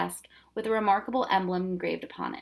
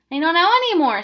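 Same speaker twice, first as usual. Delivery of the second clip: put-on protesting boy; 9 semitones higher, 11 dB louder than usual.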